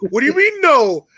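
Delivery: high, wheedling sales pitch; pushy salesman. Retold or imitated. Pushing the cake on a reluctant mother like a salesman. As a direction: sell her the cake like a store clerk.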